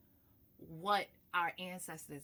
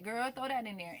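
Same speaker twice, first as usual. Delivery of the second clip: light grandmother voice; 6 semitones higher, 5 dB louder than usual. Retold or imitated. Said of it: "I hear it just like that".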